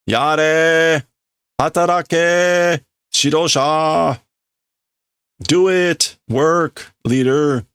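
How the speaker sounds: high, loud barked commands; angry orders. Acted. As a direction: order him to work at the top of the voice. Workers order the leader around.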